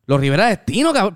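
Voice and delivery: imitating a stunned double take; retold amazement. Stranger recognises the band he just heard about, amazed. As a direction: echo the name back as an incredulous question. Stranger reacts to the band's name.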